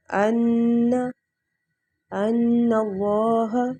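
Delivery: slow recited ان الذین with long nasal ghunna; tajweed reading of ان الذین; Quranic recitation. Shown as a demonstration. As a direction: chant ان الذین slowly, holding ان. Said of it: "اسی طرح سے دیکھیں".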